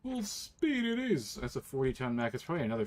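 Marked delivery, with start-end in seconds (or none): 0.0-1.4 high, slow mock pilot echo; imitating pilot radio voice. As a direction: parrot the robotic pilot line. Echoes the game's pilot voice.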